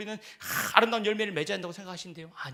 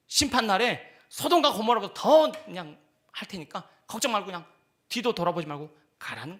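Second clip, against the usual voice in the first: louder, then easing into reassurance; reassuring Jesus; 5 dB louder than usual. Acted. Jesus reassuring disciples to go on, easing down. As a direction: send them off without worry. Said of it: "예수님이 미리 선수 치는 겁니다".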